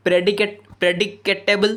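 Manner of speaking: ପ୍ରେଡିକେଟେବଲ୍ slowly broken into its syllables; sounded out by syllable. Shown as a demonstration. Teacher counting sounds, ପ୍ରେଡିକେଟେବଲ୍ slowly syllable by syllable. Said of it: "ମୁଁ ସେମିତି କହିବାକୁ ଚେଷ୍ଟା କରେ".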